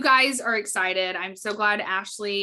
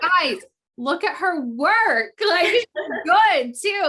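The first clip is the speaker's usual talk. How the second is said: imitating herself insisting; 8 semitones higher, 6 dB louder, slower than usual. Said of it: "And I'm like".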